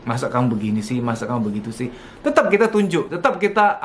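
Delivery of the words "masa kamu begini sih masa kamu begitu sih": gentle correction. Shown as a demonstration. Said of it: "tetap begini".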